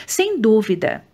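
usual speaking voice

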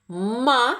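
Ма-ши-на clapped out syllable by syllable; clapping rhythm for children; split into syllables. Shown as a demonstration. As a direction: beat out Ма-ши-на in three. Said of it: "Скільки разів плеснемо в долоньки".

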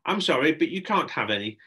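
high, loud call across a room. Acted. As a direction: sing out the name, then apologise. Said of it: "called Shelley".

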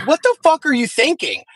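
high-pitched indignant demand, retold; outraged mom. Mom confronts the neighbor over the outing, retold as outraged. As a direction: imitate a mom telling someone off.

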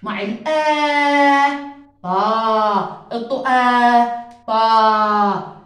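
طا drawn out slowly, with a long a; stretched vowel. Shown as a demonstration. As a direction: lengthen the a in طا. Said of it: "أنا بمد".

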